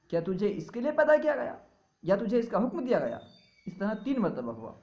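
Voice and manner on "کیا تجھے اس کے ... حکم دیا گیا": higher calling voice from nowhere; a voice calling from the unseen; unseen caller. Retold or imitated. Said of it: "غیب سے آواز آ-، آئی". (اونچی غیبی پکار)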